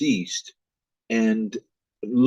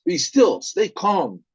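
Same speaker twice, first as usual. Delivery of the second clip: calming father; 7 semitones higher than usual. Acted. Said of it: "And then the father says".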